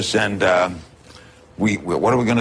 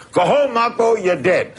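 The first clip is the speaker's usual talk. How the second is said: yelling it out; 9 semitones higher than usual. Retold or imitated. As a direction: bellow it at the returning kid, half laughing. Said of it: "Stands up on stage and goes".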